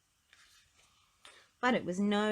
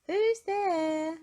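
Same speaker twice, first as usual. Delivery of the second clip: sad little voice; 12 semitones higher, 7 dB louder than usual. Acted. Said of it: "asked a sad little voice".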